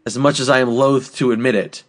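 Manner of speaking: slow, measured mock sermon with weighty pauses; mock-solemn speech. Host rallying co-hosts for the warm-ups, mock-solemn. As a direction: draw it out like a mock-grand call to arms.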